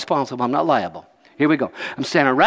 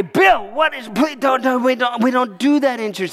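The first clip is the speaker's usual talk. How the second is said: pleading; 7 semitones higher than usual. Retold or imitated. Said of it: "and I say".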